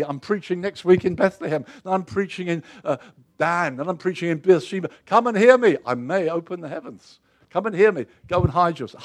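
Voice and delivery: a lightly voiced Elijah, puffed up and self-promoting; mock boastful prophet. Elijah protests hiding, hammed-up and boastful, lightly voiced. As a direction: ham up the vain preacher wanting a tour.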